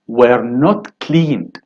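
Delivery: very slow, not stressed; slow answer. Shown as a demonstration. Teacher slowly giving the answer to the class. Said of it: "of course".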